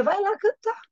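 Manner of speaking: coaxing Cupid. Retold or imitated. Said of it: "Cupido diz".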